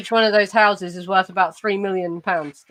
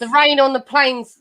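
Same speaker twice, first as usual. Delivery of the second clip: slow Cockney Eliza Doolittle; broad Cockney vowels on "rain" and "plains"; Cockney accent; 2 semitones higher than usual. Shown as a demonstration. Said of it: "a Cockney accent".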